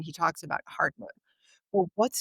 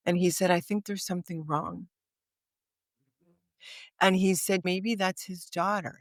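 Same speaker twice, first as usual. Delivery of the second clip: different tone. Retold or imitated. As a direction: let the weight sink into each word. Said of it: "in a totally different tone now".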